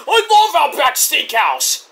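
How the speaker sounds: high, drawn-out mock enthusiasm; hammed-up delighted cry. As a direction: stretch it out in an over-keen high voice. Acting out wrestler's enthusiastic quote.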